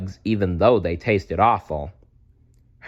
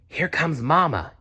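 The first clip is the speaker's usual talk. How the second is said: put-on higher, a touch urgent baby bird; hissed warning; 6 semitones higher than usual. A narrator's reading. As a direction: warn the others Mama is coming. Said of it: "hissed Pip".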